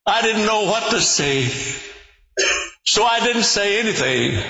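put-on high, quick, childlike telling; little girl's voice. Little girl tells her mother, in a high quick child voice. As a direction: speak it like a small girl answering her mom. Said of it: "And the little girl replied".

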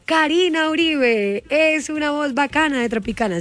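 station presentation. Retold or imitated. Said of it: "cuando nos estaban haciendo las presentaciones".

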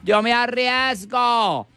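very high, slow, camp pleading; camp gay man. Acted.

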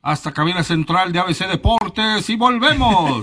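mock sports commentary. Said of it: "estás narrando como fútbol".

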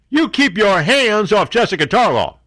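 high, slow, hammed-up warning; drawn-out high protective threat; mock threat. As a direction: warn them off in mock outrage.

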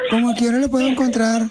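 lightly voiced Colombian woman caller; a hint of put-on femininity; Paula. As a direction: play a prank caller posing as a Colombian woman. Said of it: "habla como salvadoreña".

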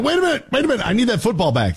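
high, urgent mock panic over the spiked ball; imitating Chuck Clark. Defender after spiking the interception ball, mock panic up high. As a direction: squeak it out like he just realized his mistake. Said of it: "He's like".

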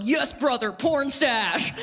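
dudes hooting from a car. Retold or imitated. Car of dudes cheering at her husband, bro cheer. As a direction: hoot it like guys out a car window. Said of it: "they're like".

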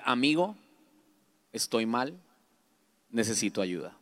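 soft, sinking plea with long pauses; vulnerable confession. Retold or imitated. Man phoning a friend for help, subdued and vulnerable. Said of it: "empecé a llorar".

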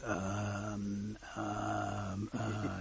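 long, stuck hesitation sounds; tongue-tied shy suitor. Acted. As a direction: stall helplessly, unable to find words. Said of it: "he can't get any words out".

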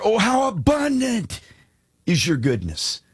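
Oh how abundant cried out very high; exclaimed verse. Shown as a demonstration. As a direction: burst out the psalm in awe. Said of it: "can't even get the emphasis of it".

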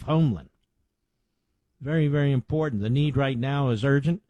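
earnest sponsor pitch, steady and urgent; ad read. Acted. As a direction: sell it straight to the listeners. Host reads sponsor ad.

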